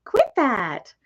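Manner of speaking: giggling, ticklish and high; laughing. Real, not acted. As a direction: laugh while pushing the bird off. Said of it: "Quit, you're tickling me".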